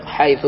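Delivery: حيث pronounced haythu, ending in "u"; final damma. Shown as a demonstration. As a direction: say حيث with a damma on the last letter. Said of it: "بعضهم ينطق".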